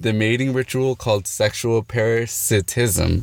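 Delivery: slight lisp from retainers in mouth; talking with retainers in. Real, not acted. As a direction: speak around a mouthful of retainers. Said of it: "I got my retainers in, I can't speak".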